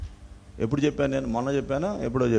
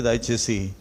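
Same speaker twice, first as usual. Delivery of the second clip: ordinary talk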